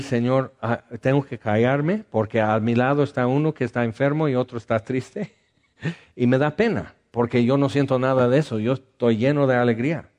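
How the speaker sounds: hurried, apologetic prayer with a laugh; fussing to God about feeling too happy; mock self-conscious prayer. Preacher mocks a guilty happy believer, laughing. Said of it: "O podemos llegar y decir".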